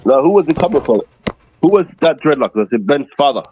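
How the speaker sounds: thin tinny mic sound; speaking through a tinny mic. Real, not acted. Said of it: "Your mic sounds tinny as fuck".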